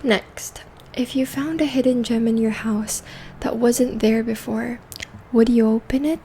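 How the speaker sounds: gentle half-whispered soft speech; soft spoken voice. Real, not acted. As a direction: speak softly, like a calm spa host. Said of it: "this video is going to be in a soft spoken voice".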